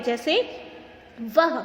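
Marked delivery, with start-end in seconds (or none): 1.4-1.6 वह said alone as an exclamation, then a clear pause. Shown as a demonstration. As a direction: set वह apart and stop briefly after it. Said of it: "हम थोड़ा सा रुकते हैं".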